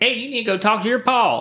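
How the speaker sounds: stereotyped fake Alabama accent. Mimicking how people in the movie talk: imitating an overdone stereotypical movie accent. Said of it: "people are talking like".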